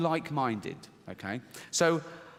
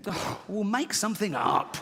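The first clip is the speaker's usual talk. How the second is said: sly father; 6 semitones higher than usual. Acted. Punchline, father voice.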